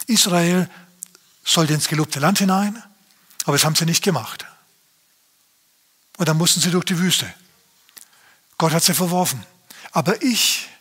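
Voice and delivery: a lightly voiced, eager believer protesting to the pastor; imitating a believer. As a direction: churchgoer answering the pastor, mildly fired up. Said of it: "du sagst jetzt".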